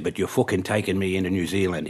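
put-on amateur Irish accent. Drunk passenger insisting to his driver, Irish accent. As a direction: carry on imitating the Irish passenger. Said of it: "I'll do this in the Irish accent".

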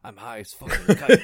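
put-on thick French accent in broken English, loud. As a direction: play a French guy mangling English. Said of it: "my best broken English French guy accent".

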